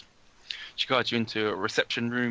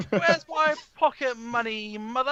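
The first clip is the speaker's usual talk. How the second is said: slow, high-pitched holler to mother; whiny yelling; 12 semitones higher, slower than usual. Acted. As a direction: call it across the house, drawn out. Neil yells to mother at back.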